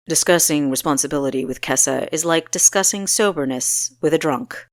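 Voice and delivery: put-on a stern young ruler with a cutting jab. Pantheus jabbing at Kessa.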